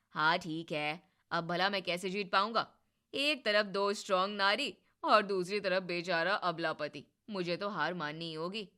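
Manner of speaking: lightly voiced husband, teasing surrender; husband's voice. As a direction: give up playfully to sister and wife.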